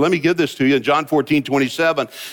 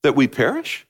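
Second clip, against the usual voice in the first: desperate plea; 6 semitones higher, slower than usual. Retold or imitated. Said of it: "he said".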